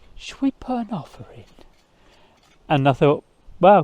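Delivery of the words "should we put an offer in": soft whisper in a hushed tone. Quoting Mandy as she turned to the speaker inside the house, in a hushed tone. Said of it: "quite sort of like in a hushed tone".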